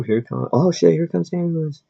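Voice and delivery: high-pitched mock announcement; mock alarm. Vlogger heralding a passing ambulance, mock alarm. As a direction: call it out high, as if an ambulance is coming.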